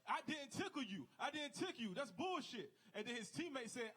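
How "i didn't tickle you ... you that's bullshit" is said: outraged denial. Retold or imitated. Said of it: "was like".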